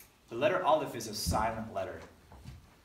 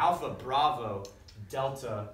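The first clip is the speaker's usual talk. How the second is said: slow recitation; 5 dB louder, slower than usual. Shown as a demonstration. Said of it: "We say".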